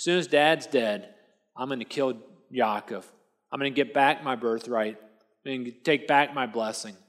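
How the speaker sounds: low, restrained vow of revenge; understated menace, dropped in pitch; seething threat. Acted. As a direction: act out a brother quietly plotting payback. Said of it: "Esau was red hot".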